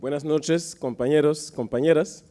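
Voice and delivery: hoarse, sore throat from the cold. Real, not acted. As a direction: speak through a rough, hoarse throat. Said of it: "Me excusan por la garganta".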